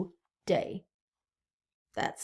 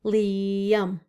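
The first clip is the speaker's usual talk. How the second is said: Liam split as Li and am; syllable split. Shown as a demonstration. Teacher to class, counting syllables in a name. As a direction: say Liam in two clear beats. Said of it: "How many syllables are in Liam?".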